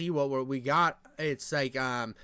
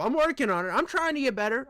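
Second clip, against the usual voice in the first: trying Trump voice; 6 semitones higher, faster than usual. Pretend. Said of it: "I wanna get my Trump down".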